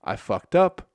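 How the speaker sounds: panicked rat. Retold or imitated. Beaten rat realizes it messed up, panicked yelp. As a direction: scramble to flee in a panic. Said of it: "The rat's like".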